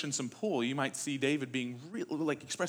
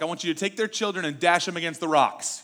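mild mock anger; 2 semitones higher, 5 dB louder than usual. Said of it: "He's so angry at his enemies".

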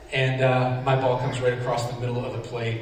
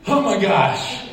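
higher and louder, laughing through it; thrilled you got him, slow and laughing; excited laughing disbelief; 7 semitones higher, 4 dB louder, slower than usual. Retold or imitated. Pitcher thrilled by the strikeout.

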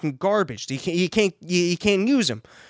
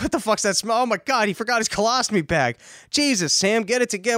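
mock disgusted outburst; 6 semitones higher than usual. Acting out a disgusted bystander scolding.

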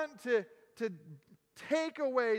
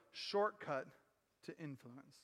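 hushed refrain; 8 semitones lower, 7 dB quieter than usual. Acted. Refrain again, very soft.

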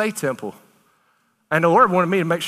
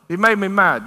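firm, louder scolding; God scolding; 2 semitones higher, 3 dB louder than usual. Acted. God rebuking his people, firm and pointed. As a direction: say it as a pointed accusation.

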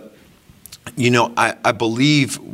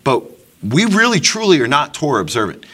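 fervent preaching; 4 semitones higher, 3 dB louder than usual. Real, not acted. Preaching rebuke to congregation.

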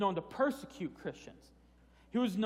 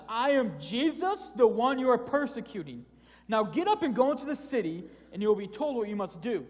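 voice of Jesus; 4 semitones higher, 5 dB louder than usual. Acted. Voicing Jesus speaking to Saul.

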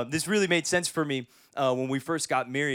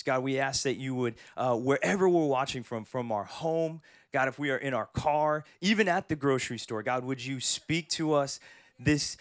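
pastor's prayer. Acted. Pastor praying for the Dodgers, earnest prayer voice. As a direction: lead the church in prayer.

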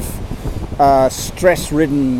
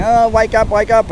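put-on kids calling; 7 semitones higher than usual. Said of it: "the kids are rattling at the bed going".

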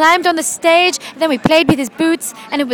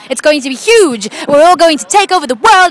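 rising into excited, louder gushing; overexcited; 3 semitones higher, 4 dB louder than usual. Acted. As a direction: get carried away with excitement. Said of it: "Victi, calm down".

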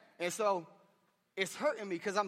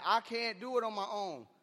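raised-pitch prayer of surrender; higher, earnest admission; confessing plea to God; 4 semitones higher than usual. Acted. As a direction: cry out to God for help. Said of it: "saying that".

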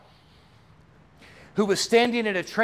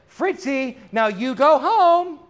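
firmer lady to dog; 5 semitones higher, 3 dB louder, slower than usual. Retold or imitated. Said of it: "she turns around and she says".

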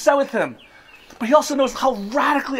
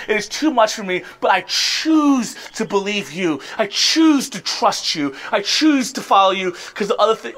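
surrendering prayer. Acted. Believer telling God earnestly they choose him. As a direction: pray it out in surrender.

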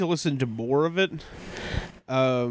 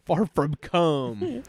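slow echo; much slower than usual. Acted. Repeating the pun slowly.

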